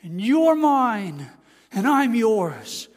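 very slow, drawn-out loving words; acted fatherly tenderness, stretched out slowly; tender murmured affection. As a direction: voice a doting father to his child, lingering. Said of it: "bury his face in the child's neck and whisper".

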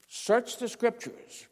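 slow, high voice of Christ; lightly voiced Jesus, slow and high; slow scripture quote. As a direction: lay out each word slowly. Quoting Jesus.

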